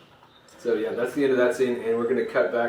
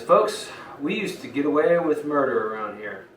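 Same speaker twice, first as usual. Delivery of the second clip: pissed villain; 4 semitones higher, 5 dB louder than usual. Acted. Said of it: "starts going nuts and he's pissed".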